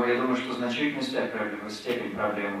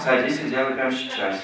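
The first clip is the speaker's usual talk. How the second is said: drill sergeant; 2 semitones higher, 4 dB louder than usual. Retold or imitated. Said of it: "like a drill sergeant in the army".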